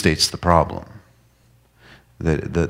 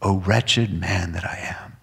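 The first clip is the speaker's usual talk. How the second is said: slow breathy whisper of despair; hushed sinner's lament; 4 dB quieter, slower than usual. Acted. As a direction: whisper it like a confession. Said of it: "get to this point".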